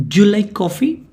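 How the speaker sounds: "Do you" run together as "dyu", rising question; teacher's model of a contracted "Do you"; linked pronunciation. Shown as a demonstration. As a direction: blend "Do you" into one syllable and lift the question. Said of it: "Do you is pronounced as do".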